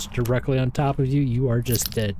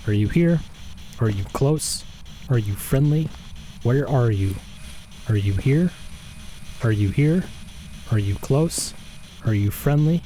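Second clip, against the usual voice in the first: calling out. Acted. Calling out to the ghost.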